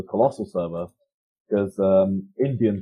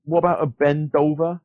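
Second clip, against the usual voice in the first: delivery man voice; 5 semitones higher than usual. Retold or imitated. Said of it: "But I was like".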